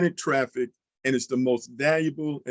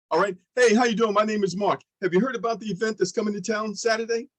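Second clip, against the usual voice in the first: friendly pitch demo; 6 semitones higher, faster than usual. Shown as a demonstration. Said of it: "You'll see how easy that is".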